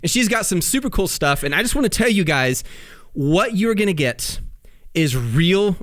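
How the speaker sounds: big broadcast announcer delivery; newscaster voice. Acted. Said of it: "I like the newscaster voice".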